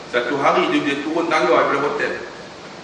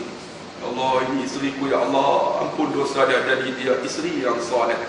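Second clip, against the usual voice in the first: tender soft prayer; 2 semitones lower, 4 dB quieter than usual. Retold or imitated. Husband prays kissing wife's forehead.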